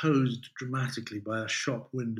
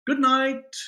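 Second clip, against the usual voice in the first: higher, louder sing-song goodbye; bright call out; 12 semitones higher, 5 dB louder than usual. Acted. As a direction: call it after the departing students. Teacher calls goodbye to leaving class.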